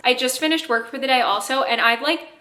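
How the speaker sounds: breathless talking; winded, catching breath. Real, not acted. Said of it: "so why am I so out of breath right now".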